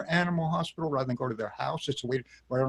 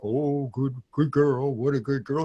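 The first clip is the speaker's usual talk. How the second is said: half-hearted, make-believe dog praise; not happy enough. Retold or imitated. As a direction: imitate a client faking happiness in an everyday pitch. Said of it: "they're just never happy enough".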